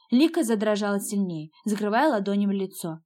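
usual speaking voice

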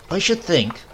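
a hint of a tart old grandmother. A narrator's reading. Grandmother gossiping to the family on the trap, lightly voiced.

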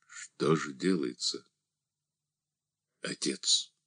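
low, hushed and rasping; barely voiced, the question scraped out; hoarse. A narrator's reading. Andrey quietly asks the deacon, hoarse and hushed. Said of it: "спросил Андрей хриплым голосом".

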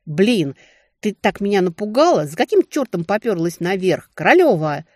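alarmed, exasperated shout; shouting over music. A narrator's reading. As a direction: yell it over the club noise. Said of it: "завизжал в самое ухо, стараясь перекричать".

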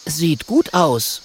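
high, slow little dragon voice; drawn-out high compliment. Acted. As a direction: pipe up as the small dragon. Small dragon compliments the panther.

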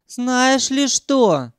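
high, very slow, huffy; Sanyok huffing. A narrator's reading. Sanyok huffing at Ukhan, slow and offended. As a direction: puff up and sniff. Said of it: "засопел Санёк".

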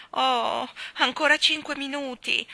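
put-on high, loud childish begging; pleading. A narrator's reading. Jane begging Mary Poppins to stay longer, loud pleading. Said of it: "implorò Jane".

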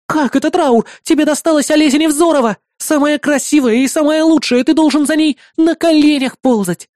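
put-on high, loud indignant girl; outraged girl. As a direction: insist he should grovel for her, high. Melissa outraged.

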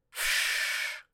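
threatening cat hiss, all breath; menacing hiss. Acted. The cat hissing at the man grabbing her, menacing hiss. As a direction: hiss like an angry cat at the stranger. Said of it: "грозно зашипел Аполлинарий".

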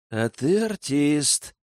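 slow words through a corner of mouth; side of mouth. Acted. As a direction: mutter it out the side of your mouth. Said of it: "процедил уголком рта".

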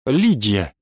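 ordinary delivery, nothing marked

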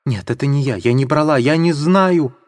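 a hint of a desperate cry; heart-rending cry. Sonya denying the theft, lightly voiced desperate cry. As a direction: plead innocence, rising. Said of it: "закричала она разрывающим сердце воплем".

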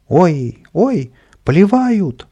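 passers-by shrieking at the spray; alarmed cries. A narrator's reading. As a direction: squeal as the water hits. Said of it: "закричали люди на улице".

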